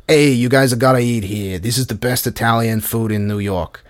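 pushy tout. Retold or imitated. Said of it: "comes up and he's like".

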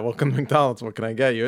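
perky drive-thru order voice; drive thru speaker. Retold or imitated. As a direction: greet like a fast food speaker. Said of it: "and it said".

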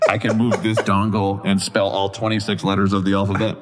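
lightly done robot voice. Pretend. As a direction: speak it like a robot. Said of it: "The robot would be like".

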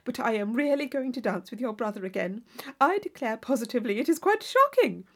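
breezy, chattering friend urging her to dance; hint of a flirtatious schemer; gushing Isabella.

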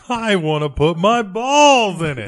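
mock eager craving. Joker acting out a silly wish to friends, mock eager. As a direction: stretch it out in hammed-up yearning.

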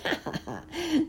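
high mosquito cackle; unpleasant villain laugh. A narrator's reading. Mosquito laughing at trapped Uncle Wiggily, unpleasant high laugh. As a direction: laugh nastily, pitched high. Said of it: "he buzzed a most unpleasant laugh".

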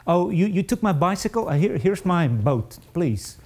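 mock generosity. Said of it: "there's no way that I'm gonna give".

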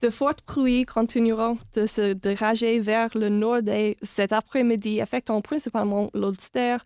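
weather forecast read in French. Shown as a demonstration. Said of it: "this is the weather in Galway in French".

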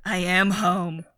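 imitating a creepy film line in a whisper; eerie movie-villain whisper. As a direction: whisper it like a possessed man, word by word. Imitating Sam Neill's eerie line.

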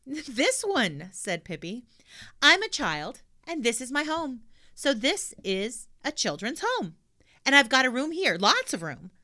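put-on high, loud pert girl; a clever little girl making her point; cheeky girl voice. Pippi explains cheekily.

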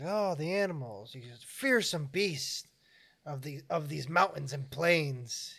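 lightly hammed-up guide, drawn out slow; a hint of an old mountain guide telling tall tales; slow, spooky local guide. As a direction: spin it like a campfire tale, slow.

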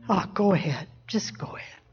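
low tempting murmur sinking to a whisper; devil's whisper. Acted. Preacher playing the devil tempting someone, whispering. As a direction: coax softly, like a tempter at the ear. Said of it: "the devil's whispering".

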